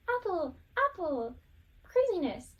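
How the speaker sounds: high, loud crazy woman calling her donkey. Retold or imitated. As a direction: call out "Apple" high and frantic, imitating a madwoman. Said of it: "the crazy woman, ... she runs through the forest".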